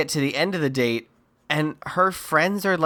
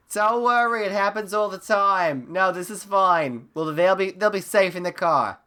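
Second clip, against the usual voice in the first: mock calling-out in a higher voice; Missus LaRusso; 5 semitones higher than usual. Mom reassuring parents from the car, higher mock call. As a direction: lightly imitate a mom calling up, without real volume. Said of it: "Missus LaRusso shouts up to the parents".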